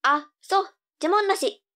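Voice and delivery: put-on high cute anime girl. Girl answering her mother.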